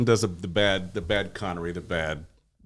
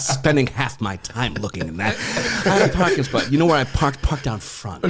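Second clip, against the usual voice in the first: lightly voiced gravelly actor; a rough attempt at a rich, gravelly voice; Ian McShane; 4 semitones higher than usual. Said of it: "He's got this voice".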